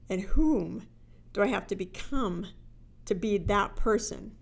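breathy whisper on the key question; to be that person, whispered. Acted. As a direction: whisper it like a secret.

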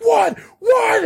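very high, squeaky mock shriek; piercingly high outraged squawk; imitated screaming. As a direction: yelp it like a kid losing it. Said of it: "fucking screaming".

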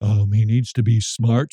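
lightly voiced woman musing over her wishes; hesitant, mildly put-on woman's voice; woman impersonation. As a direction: play a picky woman, lightly. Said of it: "this is my impersonation of a woman".

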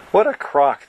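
quacked scoff. Acted. Young Kakar scoffs at his parents' boast, quacking. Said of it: "the young Peng Kakar quacked".

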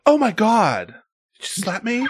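put-on high, gasping teen girl; shocked high girly gasp. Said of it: "like a sixteen-year-old girl".

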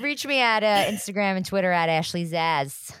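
a hint of a comedian's delivery; lightly voiced Sebastian Maniscalco; Sebastian Maniscalco impression. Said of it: "that was my Sebastian Maniscalco impression".

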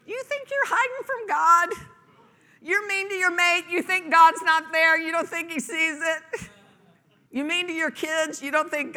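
high, loud taunting voice; mocking challenge. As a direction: needle them with a mocking tone. Preacher mocking the hidden sinner.

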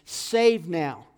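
slow, emphatic scripture plea; measured pleading, each phrase drawn out; David crying out. Retold or imitated. Preacher reads David's cry to the Lord, slow crying out. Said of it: "David is crying out to the Lord".

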